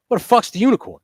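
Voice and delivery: high, loud disbelieving yell; incredulous outburst. Retold or imitated. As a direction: blurt it out, outraged and high. Retelling his outburst to wife.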